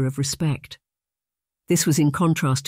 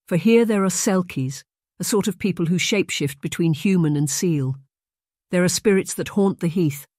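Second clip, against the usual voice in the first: a hint of an aunt telling eerie lore; lightly voiced aunt sharing island spirits; mysterious aunt; 3 semitones higher than usual. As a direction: raise it as a wondering tale.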